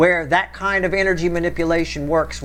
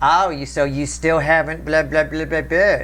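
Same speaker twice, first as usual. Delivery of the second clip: very judgmental, disapproving, nagging tone. Complaining about how she says things, mock-judgy tone. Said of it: "It's got a very judgy tone to it".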